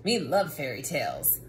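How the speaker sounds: low, cookie-monster-style growl; a hungry monster who loves stories. Acted. Monster character again.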